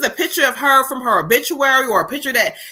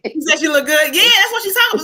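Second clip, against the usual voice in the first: breaking into laughter over the joke about her photo; laughing; 5 semitones higher, faster than usual. Real, not acted. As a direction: crack up while repeating the line. Laughing at grandma's photo remark.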